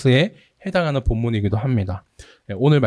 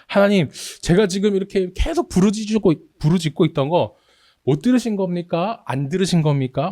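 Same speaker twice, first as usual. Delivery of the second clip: raised, desperate questioning of God; pleading cry; 6 semitones higher than usual. Retold or imitated. Psalmist asking God why unheard, pleading cry. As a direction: beg God for an answer. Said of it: "이렇게 외치는 겁니다".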